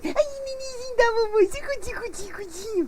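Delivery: put-on high cooing baby talk to an infant. Host imitating a mother cooing to her baby, very high. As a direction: coo like a mother to her newborn. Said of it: "infantilizar demais a fala".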